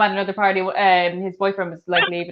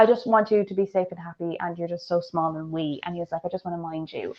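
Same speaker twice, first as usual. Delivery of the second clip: tender pleading; 4 semitones lower, 9 dB quieter than usual. Retold or imitated. Voicing the man's tender protective pleading.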